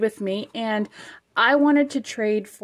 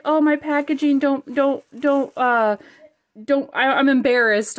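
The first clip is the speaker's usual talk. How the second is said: imitating a flustered friend, higher and a bit louder; stammering mock nerves; mock nervous fluster; 4 semitones higher, 4 dB louder than usual. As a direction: play her embarrassed panic, lightly. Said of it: "she was so nervous".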